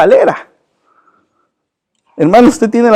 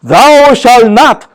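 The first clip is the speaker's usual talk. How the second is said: very slow solemn archaic English; mock King James English, drawn out; 3 semitones higher, much slower than usual. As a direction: intone it like old scripture to mock it. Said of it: "le leyeran en la King James".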